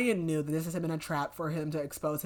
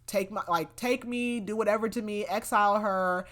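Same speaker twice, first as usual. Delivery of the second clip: higher, pleading plea for her life; retold begging; 4 semitones higher than usual. Dorian begging the king to spare Sorsha, pleading. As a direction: beg him to spare her, pitched up. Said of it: "Dorian begs".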